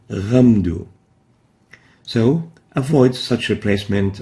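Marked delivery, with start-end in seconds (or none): 0.1-0.9 ghamdu with a voiced ghain; wrong ghain. Shown as a demonstration.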